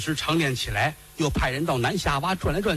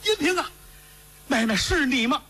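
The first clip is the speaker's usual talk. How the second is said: high anguished calling out; desperate cry; 11 semitones higher than usual. Acted. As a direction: reach out crying to the bird. Brother cries to the bird.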